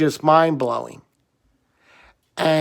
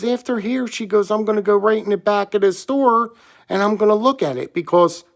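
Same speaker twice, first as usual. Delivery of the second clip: eager clerk; 5 semitones higher, faster than usual. Retold or imitated.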